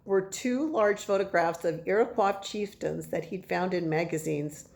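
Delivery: measured storytelling with stressed key words; reading to children. A narrator's reading. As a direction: read the chapter aloud with emphatic phrasing. Reads the chapter to children.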